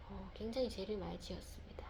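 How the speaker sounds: drops to an unvoiced whisper; whispered admission of guilt; whispered confession. Real, not acted. Confessing sins against her son.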